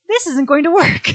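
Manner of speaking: high, loud dismay; exasperated shout. Retold or imitated. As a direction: blurt it out in despair. Overwhelmed by crowd, retold.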